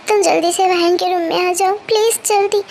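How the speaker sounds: flustered urgency. Acted. Elder sister calls Jimin to the child's room, flustered urgency. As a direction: urge her to hurry, worried. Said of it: "आप इतने घबराए हुए क्यों हो".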